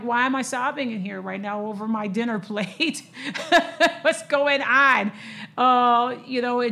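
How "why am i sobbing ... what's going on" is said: laughing at herself. Retold or imitated. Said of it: "I'm like".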